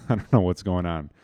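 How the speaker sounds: laughing through the words; chuckling at her own stumble; laughing at a slip. Real, not acted. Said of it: "I can't talk right now".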